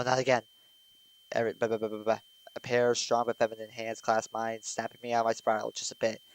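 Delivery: ordinary delivery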